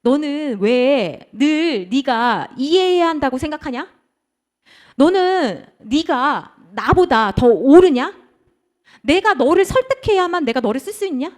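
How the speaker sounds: acted divine rebuke, deliberately paced; God reproving. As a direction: challenge them word by word as God. God questioning the praying believer.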